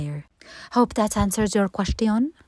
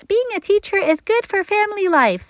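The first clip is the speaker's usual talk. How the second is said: higher, mock-preachy mother quoting a rule; imitating mama; 12 semitones higher, 4 dB louder than usual. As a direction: do mom laying down the law. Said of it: "My mama was always like".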